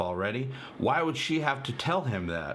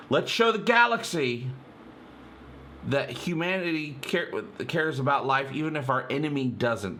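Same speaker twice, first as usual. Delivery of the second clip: imitating aggravated Ed; 3 semitones higher than usual. Fan quoting Ed's line, mildly aggravated. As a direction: retell it like a man pushing to be heard. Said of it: "like, aggravated".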